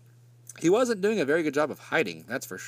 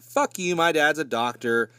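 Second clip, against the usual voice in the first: defiant snap; 2 semitones higher than usual. Retold or imitated. Barry snapping back at Renee.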